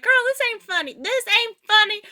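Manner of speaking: put-on high indignant girl, not funny; offended scolding. Hurt friend scolding the narrator for laughing, high.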